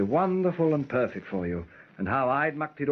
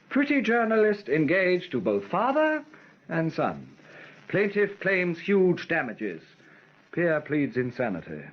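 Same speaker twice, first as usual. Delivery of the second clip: headline voice; slower than usual. Acted. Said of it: "I keep visualizing headlines".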